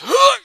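sharp, high, loud death gasp; a loud acted gasp of impact; harpooned grunt. Game master acting the pirate struck by a harpoon, high loud gasp. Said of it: "as he goes".

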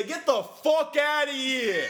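slow, drawn-out high loud kiss-off; mock dismissal. Bar owners telling a Bud Light customer off, slow loud growl. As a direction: stretch it out and throw them out. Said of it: "We say".

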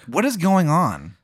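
high-pitched, incredulous question; baffled outburst. Real, not acted. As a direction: react in total bewilderment. Baffled by surreal scene.

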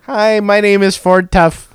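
lightly mocked Filipino agent; Filipino accent. Agent giving an absurd made-up name, Filipino accent. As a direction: introduce yourself in a put-on Filipino accent. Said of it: "Your Filipino accent might be".

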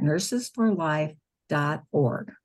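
spelling out the web address slowly; slow dictation. Real, not acted. Telling listeners the web address, slow careful dictation. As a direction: say nurses for life dot org slowly and carefully, like dictating. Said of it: "one word".

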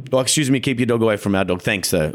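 firm, even, polite request; assertive but calm. Retold or imitated. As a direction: re-enact a calm and fair request. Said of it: "Assertively, but calm and fair".

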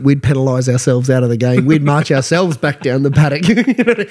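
normal talking voice

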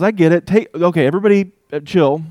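calm them down casually; Jesus reassuring the scared disciples, breezy; casual reassurance. Retold or imitated. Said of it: "he kinda goes".

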